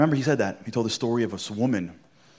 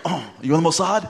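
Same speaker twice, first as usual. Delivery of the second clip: laughing question; 8 semitones higher, 7 dB louder than usual. Retold or imitated.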